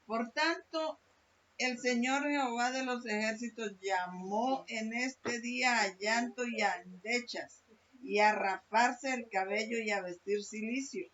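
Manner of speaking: emphatic sermon reading of the verse; preaching scripture. Acted. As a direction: proclaim the verse from the pulpit. Preacher reading Isaiah 22 forcefully.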